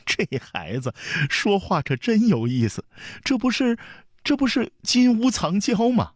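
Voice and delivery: high-pitched mirth, nearly helpless; highly amused. A narrator's reading. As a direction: exclaim as a delighted aunt overcome with amusement. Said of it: "长公主笑得前仰后合". (笑得前仰后合地说)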